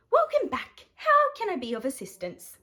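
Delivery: high sing-song shop lady greeting; bright customer-service welcome; cheery shopkeeper. Acted. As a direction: greet him like a chirpy saleswoman.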